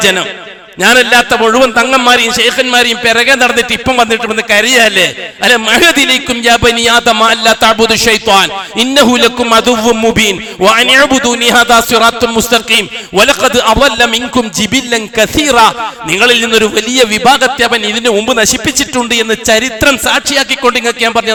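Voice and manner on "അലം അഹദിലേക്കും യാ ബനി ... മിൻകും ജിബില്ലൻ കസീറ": slow, melodic Quran chant; Quranic recitation. Acted. Preacher reciting the verse to the congregation, chanted. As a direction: draw each Arabic word out in tajweed.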